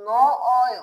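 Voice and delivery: ন, brief gap, then অয়; broken-up pronunciation. Shown as a demonstration. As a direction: separate ন from অয়. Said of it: "তাহলে উচ্চারণটা কি হবে?".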